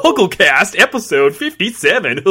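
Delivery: high, loud, slow host hello; Andrew Sims voice. Retold or imitated. Podcaster showing the host voice he copies, high and slow. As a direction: draw out the greeting, a bit Goofy. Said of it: "I try to get the voice that he does".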